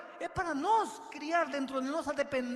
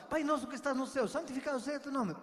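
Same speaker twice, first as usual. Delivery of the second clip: rattled-off rote prayer; 3 semitones higher, faster than usual. Pretend. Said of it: "Isso, isso não é orar".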